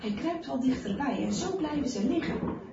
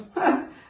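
short, loud scoffing laugh; one derisive, higher-pitched "ha"; mocking snort of laughter; scornful laugh; 6 semitones higher, 7 dB louder than usual. A narrator's reading. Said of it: "lacht schamper".

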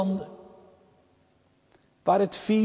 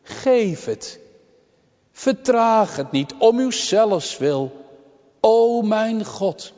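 raised, insistent pleading with God; higher-pitched, solemn supplication; urgent intercession; 5 semitones higher, slower than usual. Retold or imitated. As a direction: press each plea home in prayer. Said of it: "die dringende voorbede worden uitgesproken".

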